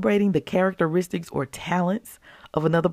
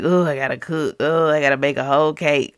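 a little grumble about cooking, lightly voiced; half-hearted whining over having to bake a whole cake; mild mock complaint; 2 semitones lower than usual. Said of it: "little complaint".

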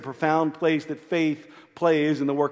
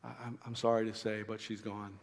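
hushed, much softer whisper of bad news; 4 semitones lower, 13 dB quieter than usual. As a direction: lean in close and breathe the news softly. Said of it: "pulls Jairus aside and whispers in his ear".

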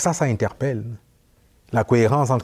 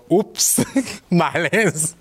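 high-pitched embarrassed oops with a laugh; 7 semitones higher, much slower than usual. Retold or imitated. Realizing the whole store heard him, a high embarrassed laugh. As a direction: catch yourself, laugh it off awkwardly. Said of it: "je fais comme".

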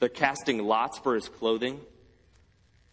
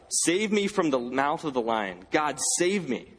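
higher, mildly pleading cry to God; acted cry for rescue, not shouted; 4 semitones higher than usual. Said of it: "David cries out".

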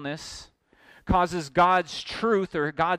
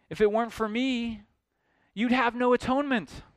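mildly indignant protest, pitched up at first then easing down; aggrieved Judas. Acted. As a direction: plead your case as if wronged, lightly acted. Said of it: "the cry of Judas".

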